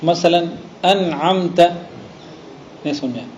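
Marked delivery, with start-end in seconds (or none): 0.8-1.6 "انعمت" recited slowly with a clearly sounded noon; wasl reading demo. Shown as a demonstration. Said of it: "دیکھو آپ وصل سے پڑھ رہے ہیں لیکن نون پڑھ رہے ہیں". ("انعمت" میں نون صاف پڑھیں)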